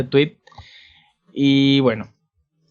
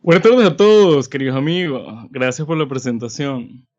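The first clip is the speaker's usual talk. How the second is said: voz engolada de declamador, más aguda y fuerte; salúdalos como un declamador teatral; declamador de poemas; 3 dB louder than usual. Pretend. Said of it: "quiero poner voz así como de, de, declamador". (recitador solemne de poemas)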